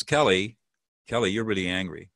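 name the feeling straight and calm; direct label. Shown as a demonstration. Coach demonstrating the direct version to host, calm and firm.

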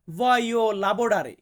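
each syllable of voglio lavorare drawn out very slowly; slow teaching model. Shown as a demonstration. Teacher modelling voglio lavorare very slowly for viewers. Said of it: "আমাকে বলতে হবে".

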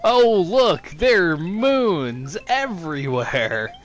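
hammed-up, drawn-out glee; mock delight. Player gushing over moons everywhere, mock delight. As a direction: gush slowly with put-on wonder.

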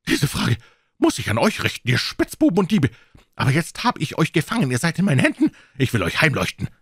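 the fat villain shouting threats at the intruders; angry fat man. A narrator's reading. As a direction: rage at the thieves in his house.

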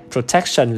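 protection with an e in the middle syllable; model pronunciation. Shown as a demonstration. Teacher showing the e sound in protection, model pronunciation. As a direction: say "protection" slowly, clear e in tec. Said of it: "là âm e".

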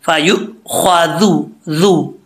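"जू" as a careful dh sound, no sibilance; no whistle. Shown as a demonstration. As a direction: model "फ़ायु ख्वादु", then isolate "जू" without any whistle. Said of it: "दाल पढ़ा जाएगा बगैर सीटी के".

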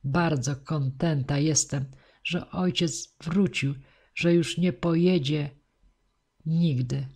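usual speaking voice

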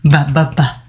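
short, low BA, BA, BA; demonstrated B sound. Shown as a demonstration. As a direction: repeat BA as separate syllables with a b sound. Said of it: "That's the sound".

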